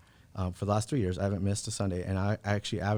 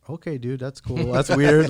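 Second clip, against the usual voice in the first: incredulous outburst; 4 semitones higher, 9 dB louder, slower than usual. Retold or imitated. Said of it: "I'm like".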